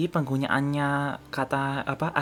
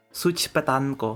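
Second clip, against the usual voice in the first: name said with an Indonesian accent. Reading someone's name the way an indonesian would, indonesian accent. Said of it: "That's how an Indonesian would read that".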